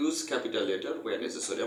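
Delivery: very slow, word-by-word textbook reading; reading aloud. Acted. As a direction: dictate it slowly so students can follow. Reads textbook instruction aloud.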